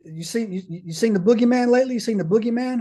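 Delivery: high-pitched ribbing of a buddy; mock taunting. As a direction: imitate guys needling someone. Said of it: "start going in on this guy".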